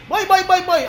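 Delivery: חיקוי אישה קוראת, גבוה; לקרוא לה להצטרף, בטון גבוה; קריאה מחוקה. Retold or imitated. אישה קוראת לקרובתה בתור. (קריאה מזרזת בחיקוי)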